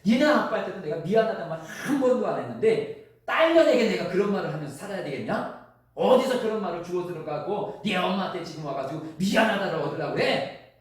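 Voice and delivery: loud, high, angry outburst at the daughter; mother's angry retort, pitched high; mother flaring up. Retold or imitated. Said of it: "버럭 화를 내면서".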